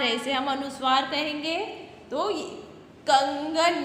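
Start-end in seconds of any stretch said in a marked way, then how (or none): 3.1-3.8 कंगन with a nasal कं, ng into the g; nasal anusvara. Shown as a demonstration. Teacher demonstrates कंगन to class, nasal. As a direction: push कंगन's कं through the nose. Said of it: "नाक से हम बोलेंगे".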